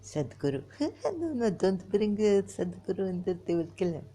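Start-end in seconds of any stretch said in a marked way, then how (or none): 1.2-4.1 high, louder protest breaking out of a laugh; amused mock protest. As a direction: object in mock alarm, half laughing. Jokingly protests mentioning Sadhguru.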